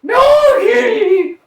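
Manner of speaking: high loud braying "Donkey!"; hee-haw the word. Pretend. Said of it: "A donkey".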